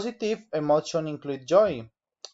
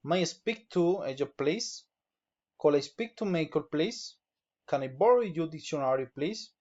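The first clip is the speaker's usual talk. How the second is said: polite requests with "please?" lifted; rising intonation. Shown as a demonstration. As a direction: let each "please?" turn upward. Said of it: "raising intonation".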